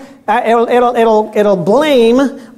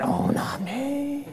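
Peter protesting; 7 semitones higher, much slower than usual. Retold or imitated. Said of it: "Oh, you're gonna desert me then".

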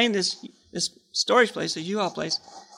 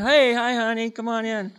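eager greeting; 4 semitones higher than usual. Retold or imitated. Husband hails his wife driving by, eager greeting. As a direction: call a sweet hello in a raised pitch.

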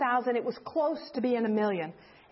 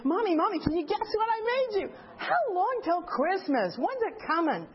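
higher, lightly voiced excited child; eager little boy; 5 semitones higher than usual. Little son pestering his mommy about Christmas, lightly voiced eager child. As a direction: mimic a small boy begging to know.

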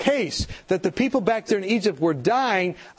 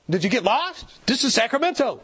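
mock disbelief, pitched up at the end; hammed-up baffled retort; exaggerated incredulity; 4 semitones higher than usual. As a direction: play up the disbelief, jokingly. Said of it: "I didn't say it that way".

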